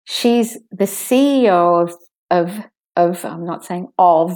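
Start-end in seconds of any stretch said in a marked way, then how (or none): 0.0-1.9 She's the C E O said with C E O hit hard; stressed demo. Shown as a demonstration. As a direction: stress C E O, let "of" slide. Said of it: "this is the sentence, uh, to copy with me".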